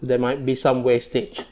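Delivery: food in mouth; speaking between bites; chewing while talking. Real, not acted. Seen 2: Bite taken at -2.0; cheeks look filled, mouth moving while cutting chicken.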